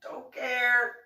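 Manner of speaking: a laughing sing-song of I don't care; mock her crying with dismissive repeats; taunting. Teller taunting the crying woman, laughing and dismissive.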